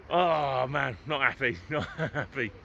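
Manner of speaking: a laugh breaking into it; laughing disappointment. Real, not acted. Vlogger to viewers at a shut supermarket, laughing disappointment. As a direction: laugh through the letdown.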